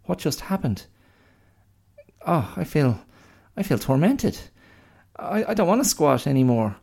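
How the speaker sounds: high, bewildered pig voice; a pig feeling the demons take hold; high mock-tormented pig; possessed pig. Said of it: "the pigs are like".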